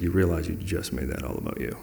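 soft, gentle reproof; loving correction. Retold or imitated. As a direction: point out a friend's slip kindly and quietly. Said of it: "someone very lovingly tell me".

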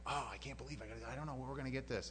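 retold fretting. Acting out fretting to his wife.

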